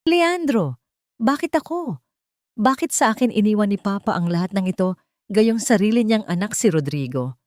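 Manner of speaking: a pained, bewildered plea; confused and bitter. Acted. Solen asking Leandro why Papa left it all to her, confused and bitter. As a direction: ask why with hurt confusion behind each word. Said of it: "puno ng kalituhan at pait".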